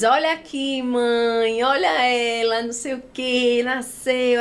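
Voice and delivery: a lightly voiced cheerful anesthetist. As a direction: show the mother her baby. Anesthetist presenting the baby.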